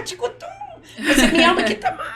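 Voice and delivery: put-on high, loud sing-song cooing to a toddler, laughing; mother's giggly baby talk asking her small son how much he loves her; playful baby talk. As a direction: coo it like playing with a little boy. Mother baby-talking to little son.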